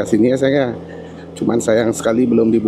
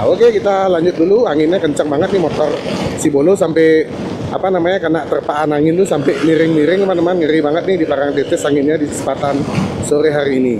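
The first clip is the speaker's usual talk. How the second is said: shouting over wind; 5 semitones higher than usual. Real, not acted. Anginnya kencang banget nih.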